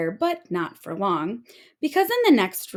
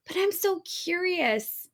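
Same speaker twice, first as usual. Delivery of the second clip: curious mermaid; 9 semitones higher, 4 dB quieter than usual. Acted. Mermaid voiced in read story.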